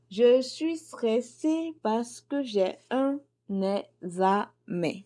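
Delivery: slow, tense, drawn-out worry; stressed. Shown as a demonstration. Teacher acting out a student worried about an exam, slow and tense. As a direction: sound like the exam is tomorrow. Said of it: "dédicace est faite pour les étudiants".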